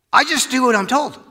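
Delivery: high, bright mock-innocent quote; playful Jesus voice. Preacher voicing Jesus as the good kid. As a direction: say it like an obedient child.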